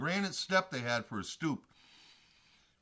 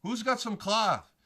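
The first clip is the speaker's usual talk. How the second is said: louder call, pitched up and slow; retold yell; 6 semitones higher, 4 dB louder, slower than usual. Yelling again at the bikers for cloth, higher. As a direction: shout it across the street, slow. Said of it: "I yell at the biker gang".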